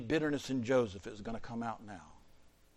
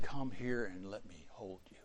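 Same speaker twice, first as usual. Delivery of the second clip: soft, low, tender murmur; intimate invitation; 4 semitones lower, 6 dB quieter than usual. Acted. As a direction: draw him close gently and quietly. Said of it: "This was an intimate conversation".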